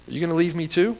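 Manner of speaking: softly discouraged plea. Acted. Jesus turning to his twelve, hat in hand, discouraged. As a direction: ask quietly, as if a little disheartened. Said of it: "maybe discouraged".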